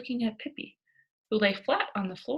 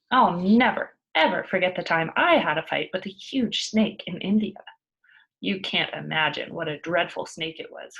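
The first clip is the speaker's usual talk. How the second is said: louder, boastful storytelling; excited tall tale; 5 dB louder than usual. Acted. Pippi boasting to the class about the snake, loud and excited. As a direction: brag it like a wild adventure.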